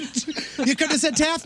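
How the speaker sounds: high, slow mock-exasperated yelling. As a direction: parody a host scolding a contestant, drawn out. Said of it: "No, Riz, I could not have said Taft".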